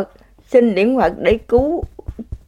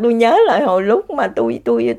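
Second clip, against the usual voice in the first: ordinary talk, nothing marked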